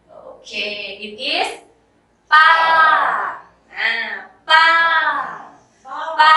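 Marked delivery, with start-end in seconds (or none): 2.3-6.4 ปา rising up then falling down. Shown as a demonstration. Teacher demonstrating to students: ปา in the falling tone. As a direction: say ปา climbing then dropping. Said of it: "falling tone up and down like this".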